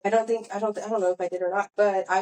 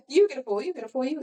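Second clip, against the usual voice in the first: giveaway-host impression, pitched up; lightly mimicked TV host, higher voice; Oprah; 5 semitones higher than usual. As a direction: hand out prizes like an excited talk show host. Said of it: "it's Oprah".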